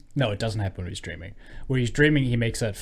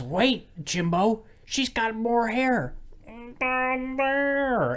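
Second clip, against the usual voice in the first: much higher, slow cartoonish thug voice; mock thug voice; 12 semitones higher, much slower than usual. Thug in a movie scene, high and slow. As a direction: drawl it out like a leering goon.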